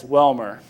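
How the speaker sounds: Welmer with an English W, from the throat; throaty American pronunciation. Retold or imitated. Telling the audience how his dad says the name, Welmer from the throat. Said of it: "it's spoken from the throat".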